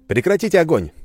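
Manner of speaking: loud, high command; demanding. Acted. Narrator demands the enemy cease fire, loud. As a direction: order it over the radio. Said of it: "потребовал я".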